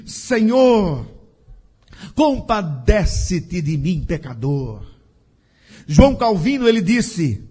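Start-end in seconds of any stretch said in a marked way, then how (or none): 0.1-4.9 praying publican. Acted. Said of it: "O publicano disse".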